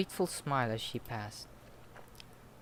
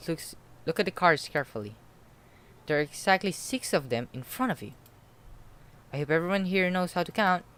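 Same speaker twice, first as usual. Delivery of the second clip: booming, louder game host; loud announcer voice; 5 semitones higher, 6 dB louder than usual. Acted. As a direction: address the room like a host.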